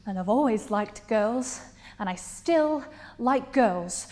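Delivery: building firmness, leaning on "still"; growing self-assertion. Acted. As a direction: stand your ground, drawing out the second phrase. Monologue grows firmer.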